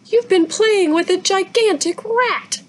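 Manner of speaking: slow, high, disgusted voice; aghast mother. A narrator's reading. Mother to daughter about the rat, slow high disgust. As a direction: drag it out in shock.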